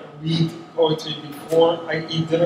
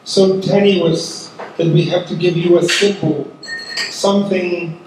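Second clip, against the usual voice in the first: measured, earnest recital of a war poem, a little louder; poetry reading; 4 dB louder than usual. Acted. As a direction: read each question to the dead, letting it land. Poet reads her poem aloud.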